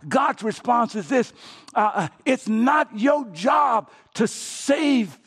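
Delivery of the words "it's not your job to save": booming God. Acted. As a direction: thunder it as God's answer. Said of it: "if I might amplify".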